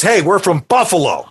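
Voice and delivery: just a touch of Buffalo in the voice; lightly voiced Buffalo accent. Shown as a demonstration. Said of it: "we just talk like this".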